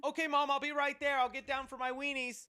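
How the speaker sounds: high-pitched eager reply to Mom; kid answering Mom. Shown as a demonstration. Son replying to Mom about dinner, high hammy calling back. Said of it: "what I'm about to do right now".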